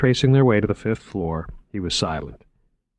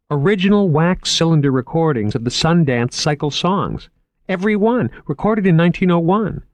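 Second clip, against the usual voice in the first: higher, keen salesman voice; lightly raised, enthusiastic museum man; eager curator Moriarty; 7 semitones higher, 3 dB louder than usual. Acted. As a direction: pitch the exhibit like an excited young curator.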